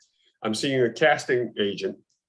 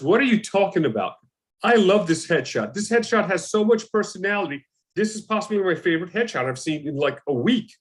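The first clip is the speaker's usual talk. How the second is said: higher-pitched, indignant insistence; almost offended; 5 semitones higher than usual. Retold or imitated. Casting agent defends actor's headshot to him, almost offended. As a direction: imitate someone affronted on your behalf, gushing praise. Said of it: "almost offended".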